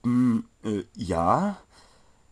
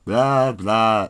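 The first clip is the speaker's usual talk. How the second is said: mocking mimic; 7 dB louder than usual. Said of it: "dachte sich Netzrot".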